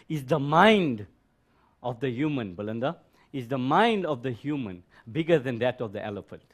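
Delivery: deliberate, emphatic question, leaning hard on MIND; slow and loud. Shown as a demonstration. Teacher repeating the question so Belinda can hear, slow and loud. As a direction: spell the question out, phrase by phrase, MIND punched. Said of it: "say it slowly and loud".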